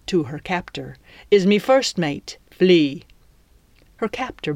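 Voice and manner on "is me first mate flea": swaggering pirate captain introducing himself. Acted. Captain introduces himself to his captive, boastful pirate voice. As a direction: play a theatrical pirate villain, mock-courteous.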